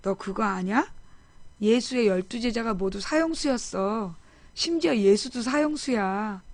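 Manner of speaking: God's voice, retold. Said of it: "하나님께서 그런 거야".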